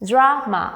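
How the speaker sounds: "drama" as dra, ma; two separate beats. Shown as a demonstration. Teacher letting learners hear two beats, "drama" split in two. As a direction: break "drama" between its syllables. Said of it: "You hear two beats there".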